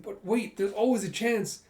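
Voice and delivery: a sudden jolt of worry; sudden doubt. Acted. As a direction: catch yourself in a panic. Character doubts his own plan.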